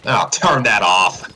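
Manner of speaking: snapping. Acted. Fred snaps at the TV report about his son, loud and irritated. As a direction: cut off the TV in disgust. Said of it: "Fred snapped".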